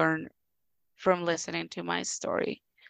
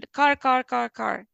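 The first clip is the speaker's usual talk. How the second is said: put-on toddler wanting; 4 semitones higher, 3 dB louder than usual. Toddler wanting the bigger car.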